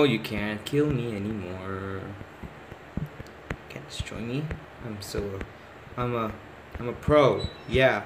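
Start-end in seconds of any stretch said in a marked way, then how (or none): 3.7-4.4 a sly hushed dare; whispered taunt. Real, not acted. Kid whispers a taunt at the granny chasing him. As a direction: whisper the boast under your breath. Taunting the game enemy softly.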